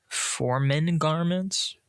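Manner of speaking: slowly, questioning the words; puzzled slow repeat. Real, not acted. Reader puzzling over the misread word, slow. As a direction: drag it out, doubting the reading. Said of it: "Foreign garments".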